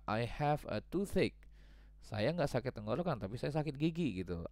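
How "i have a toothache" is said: acted sick student.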